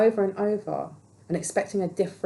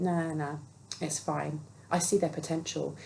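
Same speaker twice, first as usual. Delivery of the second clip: low, soft brush-off; mildly acted, offhand self-reassurance; dismissive; 3 semitones lower, 5 dB quieter than usual. Voicing someone waving away a red flag on a date, dismissive.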